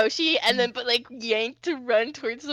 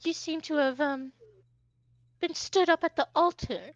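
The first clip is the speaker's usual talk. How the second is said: a higher voice, pleased with the jab; catty Hoshi voice; 3 semitones higher than usual. Acted. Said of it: "flutters his fan and he goes".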